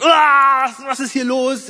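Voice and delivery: high, loud cry of frustration at the laptop; retold shout. Man on the back seat yelling at his broken laptop, high and loud. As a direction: yell it out like the mouse just went haywire. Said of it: "Und dann schreie ich hinten schon Rückbank".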